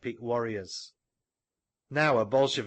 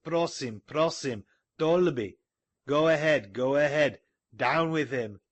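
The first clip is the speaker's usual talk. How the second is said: raised, mixed crowd shouts; crowd yells; 3 semitones higher, 3 dB louder than usual. Acted. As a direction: yell from the mob, some cheering. Crowd yelling.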